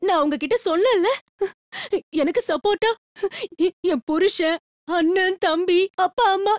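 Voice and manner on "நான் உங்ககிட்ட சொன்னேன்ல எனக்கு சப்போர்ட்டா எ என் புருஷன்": crying. Acted. Kalpana weeps before inspector.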